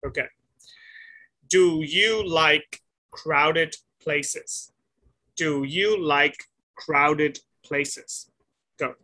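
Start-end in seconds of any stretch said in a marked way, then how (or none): 1.5-4.7 very slow, word by word; slow question reading. Real, not acted. Teacher giving Sophie a timed question, slowly read. 5.4-8.3 very slow, word by word; slow question reading. Real, not acted. Teacher giving Sophie a timed question, slowly read.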